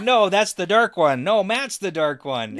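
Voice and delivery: high, loud protest in character; indignant denial. Retold or imitated. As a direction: insist it's not him.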